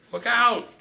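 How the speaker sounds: high, loud shout of alarm; screamed warning. A narrator's reading. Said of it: "the rest of us screamed".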